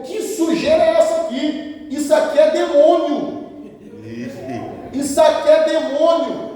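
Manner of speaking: high-pitched scandalised rebuke; mock indignation. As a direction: imitate an appalled pastor denouncing a mess. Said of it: "ele falou".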